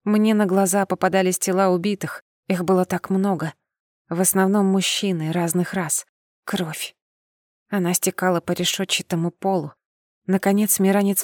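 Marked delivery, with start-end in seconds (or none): none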